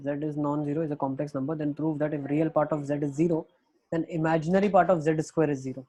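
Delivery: reading the question out word by word, slowly; slow dictation. Shown as a demonstration. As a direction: dictate slowly so students can write.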